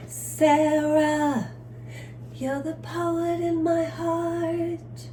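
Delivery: slow, high, breaking with tears; tearful. Real, not acted. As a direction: voice cracking into a cry. Tearful tribute to absent Sarah.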